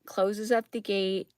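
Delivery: usual speaking voice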